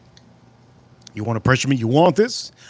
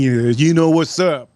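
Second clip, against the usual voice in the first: slow, louder put-on knowing voice; mock homeless guy slow; 5 dB louder, slower than usual. Repeating the homeless man's line to viewers, slow mock voice. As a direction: stretch it out mocking him.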